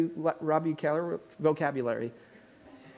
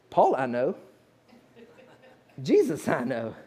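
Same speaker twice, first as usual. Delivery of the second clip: demon voice; 5 semitones lower than usual. Acted. Demon answering the exorcists.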